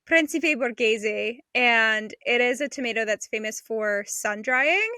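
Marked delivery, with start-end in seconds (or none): 0.1-1.4 slow, self-mocking Italian accent on Principe Borghese. Host naming her favorite tomato to her co-host, in a playful Italian accent. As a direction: roll Principe Borghese out the Italian way, a bit hammed. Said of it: "a little bit of an Italian accent".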